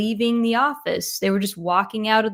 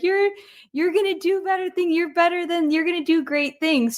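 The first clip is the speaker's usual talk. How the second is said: higher, a touch of teary pleading; the crying manager consoling him as she lays him off, higher, mildly teary; imitating tearful manager; 8 semitones higher than usual. Mild imitation of a weeping boss. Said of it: "She said that, just like that".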